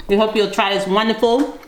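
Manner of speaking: talking through a mouthful of bread; mouth full. Real, not acted. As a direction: speak with your mouth full. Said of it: "My mouth is full".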